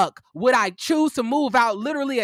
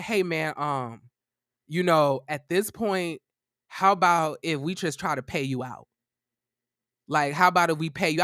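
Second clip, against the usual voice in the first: a hint of a nervous roommate bargaining; timid roommate; 7 semitones lower, 3 dB quieter than usual. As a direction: lower and softer, hesitant roommate. Roommate timidly offers to pay.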